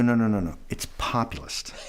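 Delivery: populist said pop-yu-list, firm correction; correcting to populist; correcting pronunciation. Retold or imitated. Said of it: "I go".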